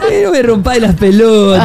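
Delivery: mock Argentine accent. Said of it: "hablar con acento argentino".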